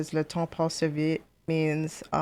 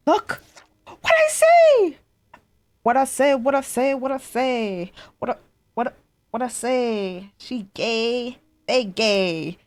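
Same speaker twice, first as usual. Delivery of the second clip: high, excited crowing; too excited; 7 semitones higher, 7 dB louder, slower than usual. Real, not acted. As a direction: crow it repeatedly, starting very high and loud. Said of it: "I got a little too excited".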